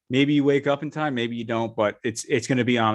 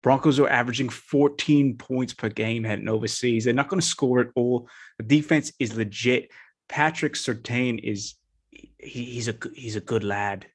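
put-on a light, half-hearted British accent. Podcaster making his London game pick, in a light British accent. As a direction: play the bloke from London, lightly. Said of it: "in kind of a British, British accent here".

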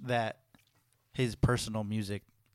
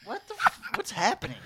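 surprised. Real, not acted. Disbelief at peanut butter question.

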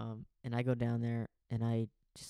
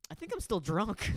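put-on higher, slow dopey drunk voice; imitating Cooper; 8 semitones higher than usual. Telling the roommate, mimicking hungover Cooper dopily. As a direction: put on Cooper's dazed drawl. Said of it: "And he goes".

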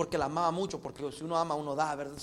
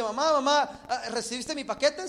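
eager son; 4 semitones higher, 5 dB louder than usual. Acted. Son phones his mother in joke.

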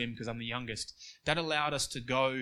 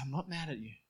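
softer, calm, level father's rebuke; imitating a father's calm, softer letdown; calm disappointed dad; 5 dB quieter, faster than usual. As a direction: quietly let the disappointment land. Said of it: "In a calm voice that just leveled you".

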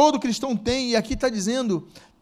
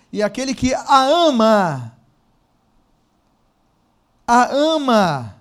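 "a ama" stretched slowly and louder, repeated; emphatic scripture reading; 3 semitones higher, 7 dB louder, slower than usual. Acted. Preacher reads the proverb to the church, slow and emphatic. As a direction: linger on "a ama" each time.

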